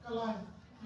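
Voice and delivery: "क्लाइंब" said as "klime", ending on m; silent final b. Shown as a demonstration. Teacher modelling the word for students, silent b. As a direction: say "क्लाइंब" with a long i and no b. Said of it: "वो silent होता है".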